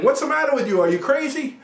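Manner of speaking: imitating the angry coach shouting across the field; retold yell. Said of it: "the coach across the field is yelling at him saying".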